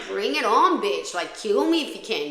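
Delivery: a fierce retold challenge, shouted out; defiant taunt. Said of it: "I was just like".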